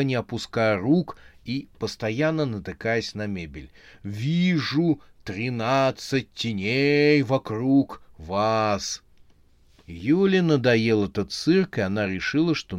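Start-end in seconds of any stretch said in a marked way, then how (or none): 4.0-9.0 slow, drawn-out seer voice; slow mystic fortune teller. Acted. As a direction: intone it like a clairvoyant.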